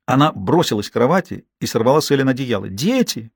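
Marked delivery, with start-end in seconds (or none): none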